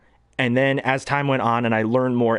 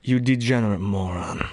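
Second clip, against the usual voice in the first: a hint of sinister Walken; 3 semitones lower than usual. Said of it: "when he's more sinister".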